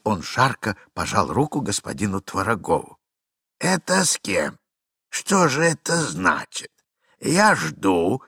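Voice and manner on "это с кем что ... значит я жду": lightly voiced husky Babynitsyn, slow; a hint of a hoarse stern husband. Babynitsyn demanding an explanation, lightly hoarse and slow. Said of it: "раздался сиплый голос".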